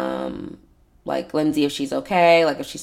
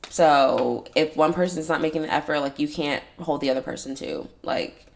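talking with a dry mouth; parched mouth, sticky words; 2 semitones lower, 4 dB quieter than usual. Real, not acted. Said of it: "My mouth is so dry".

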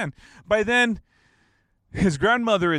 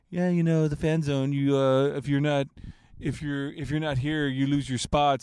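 lightly raised voice imitating a kid; higher-pitched kid. Kid claiming the seat, mimicked a little higher pitched. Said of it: "a little more higher pitched".

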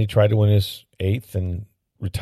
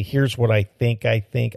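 Peter King catchphrase; 3 semitones higher than usual. Retold or imitated. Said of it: "as Peter King would say".

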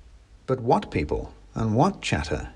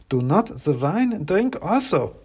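higher, slow clacked warning; clacking wooden soldier; 8 semitones higher than usual. Acted. Klaus warns the narrator not to eat, clacking. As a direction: warn in a stiff wooden clack. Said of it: "said Klaus".

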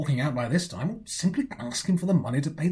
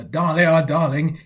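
louder, a hint of a doting husband; imitating Uncle Tom; 6 dB louder, slower than usual. Nephew voicing Uncle Tom to his aunt, louder doting call. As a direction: call her name like a fond husband. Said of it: "he will come to you and say".

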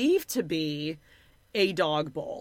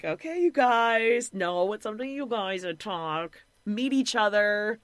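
imitated hands-off introduction. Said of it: "just be like".

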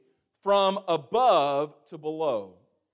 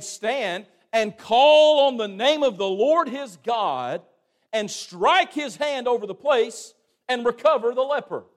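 louder, indignant proud captain; Naaman in a rage; 3 semitones higher, 5 dB louder than usual. Acted. A moderately raised angry voice. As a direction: Naaman protests, offended by the prophet's orders. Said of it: "he turned and went away, it says, in a rage".

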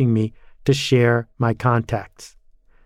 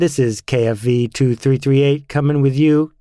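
over CB radio. Pretend. CB call sign over radio.

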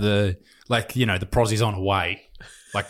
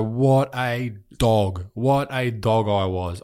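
self-scolding; much slower than usual. Real, not acted. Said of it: "I look back and I go".

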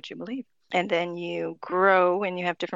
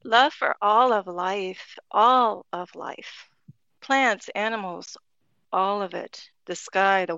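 much slower, hushed awe; reverent and slow; slower than usual. Real, not acted. Guest sharing a spirit's message with the host, slow and reverent. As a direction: let each word land, reverently.

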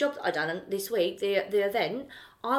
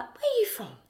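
much higher put-on accent, unlike the speaker's; imitated non-Cockney accent; 12 semitones higher than usual. Stranger at the event asking, imitated non-Cockney accent. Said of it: "he didn't sound like me".

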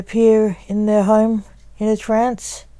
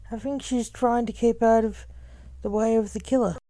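hushed worried voice; 4 semitones higher, 9 dB quieter than usual. A narrator's reading. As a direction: say it quietly, as if afraid. Christine worried about missing friend.

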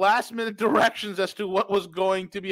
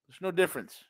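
quiet; 6 dB quieter than usual. Real, not acted. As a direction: drop the voice to a hush. Quiet repeat.

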